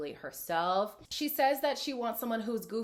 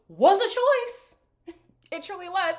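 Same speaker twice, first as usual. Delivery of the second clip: laughing; 9 semitones higher, 9 dB louder than usual. Real, not acted. Laughing at his excuse.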